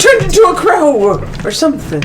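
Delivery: high, airy lady's voice; breathy vintage purr. Acted. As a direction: toss it off like a grand dame. GM continues Lady Jezebel.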